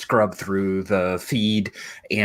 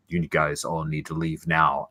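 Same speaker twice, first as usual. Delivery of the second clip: Darth Vader voice; 5 semitones lower, 4 dB quieter than usual. Acted. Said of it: "it comes through like Darth Vader".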